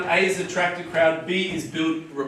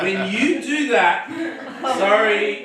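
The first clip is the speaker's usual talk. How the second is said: laughing; 3 semitones higher, slower than usual. Real, not acted. Breaks up mid-demo.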